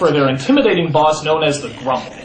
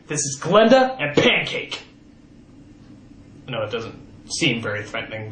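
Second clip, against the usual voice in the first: usual speaking voice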